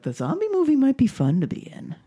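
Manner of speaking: lightly mocking zombie-fan voice; high mock enthusiast. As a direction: chirp it like a keen fan of the apocalypse. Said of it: "people who's like".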